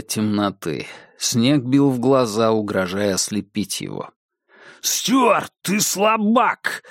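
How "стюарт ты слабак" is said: high, slow taunt from afar; taunting shout. Acted. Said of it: "донёсся голос шерифа из темноты". (насмешливый крик издалека)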